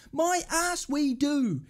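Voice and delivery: drawn-out, emphatic disbelief; slow scornful retort. Real, not acted. Fan repeating his rejection of the manager's claim, slow and scornful. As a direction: stretch every word in contempt.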